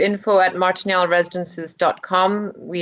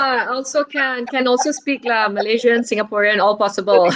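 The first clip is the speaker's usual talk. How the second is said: Singaporean English lilt; light Singlish voice; Singlish accent; 2 semitones higher than usual. Shown as a demonstration. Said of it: "love your Singlish accent".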